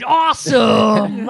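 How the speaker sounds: long drawn-out cheer; a slow, loud, delighted awesome; excited shout. Real, not acted. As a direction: stretch it out with delight. Admiring a band T-shirt.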